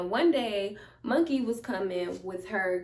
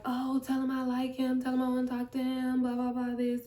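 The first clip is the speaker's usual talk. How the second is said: gushing friend; 3 semitones higher than usual. Retold or imitated. Retells friend gushing about crush.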